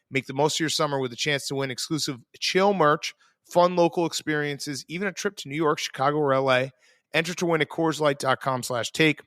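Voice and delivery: brisk, upbeat sponsor read, quick on the fine print. Acted. Host reading the Coors Light ad to listeners, upbeat ad read. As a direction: sell it like a radio spot.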